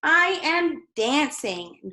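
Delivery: high, slow, delighted exclamation; joyful cry. A narrator's reading. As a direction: cry out in pure joy. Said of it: "Gerald cried".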